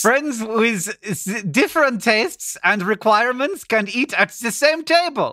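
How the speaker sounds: put-on muddled German accent reading ad copy; attempted German accent. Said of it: "read it to you in a German accent".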